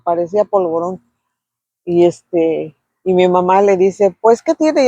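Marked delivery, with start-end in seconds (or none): 4.2-4.9 high, incredulous what's wrong; surprised question. Retold or imitated. Mother asks the shaken painter, high and incredulous. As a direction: ask in high disbelief what's the matter.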